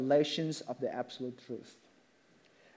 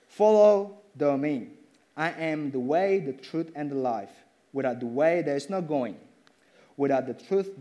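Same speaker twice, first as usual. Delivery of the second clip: poem recital. Acted. Preacher reciting Thomas Kempis's poem, reverent.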